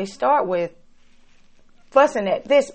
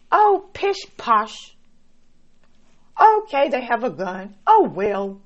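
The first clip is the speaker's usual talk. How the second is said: mock nonchalance. Preacher mocks shrugging off a gunman, airily nonchalant. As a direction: brush it off like nothing's wrong, hammed up. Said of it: "just be like".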